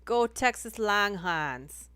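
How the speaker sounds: slow, loud cheer; loud, drawn-out fan cheer; mock team cheer. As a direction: draw out a rallying chant. Mock cheer in her accent.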